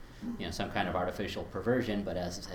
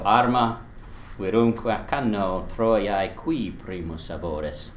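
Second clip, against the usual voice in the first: louder, slow recitation that hits "qui" hard and short; hard stress on qui; 5 dB louder, slower than usual. Shown as a demonstration. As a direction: hammer "qui" and clip it short. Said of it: "hitting that relative hard".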